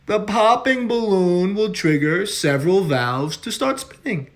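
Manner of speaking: measured governor's briefing voice; a politician explaining things far too simply; Cuomo impression. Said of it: "Governor Cuomo will dig himself".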